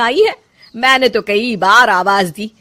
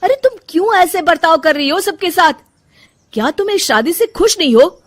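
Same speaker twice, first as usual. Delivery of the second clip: raised, higher voice pressing her for answers; husband demanding to know why his wife is upset, voice raised and higher; pleading confrontation; 7 semitones higher than usual. Acted.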